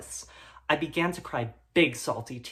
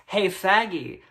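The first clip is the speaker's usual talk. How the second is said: mock bully taunt; 4 semitones higher, 5 dB louder, slower than usual.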